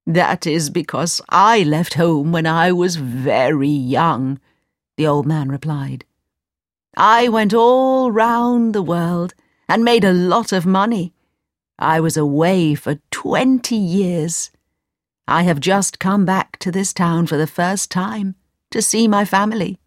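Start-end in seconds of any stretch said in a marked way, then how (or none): 0.1-4.4 lightly voiced old man, explaining. Old man answers the mother's doubts, lightly voiced old man. 7.0-19.8 lightly voiced, expansive old man. Old man explains twenty years away, lightly voiced old man.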